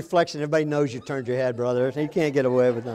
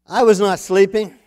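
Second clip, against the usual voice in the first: defensive dad; 3 semitones higher, 10 dB louder than usual. Retold or imitated. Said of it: "to say the darndest things".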